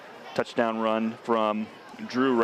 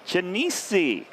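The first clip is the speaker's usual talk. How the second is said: bad Italian accent; 7 semitones higher than usual. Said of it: "Is that your best Italian accent".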